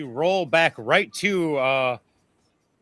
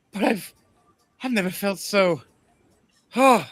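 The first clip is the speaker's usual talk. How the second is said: swooning queen; 4 semitones higher than usual. Acted.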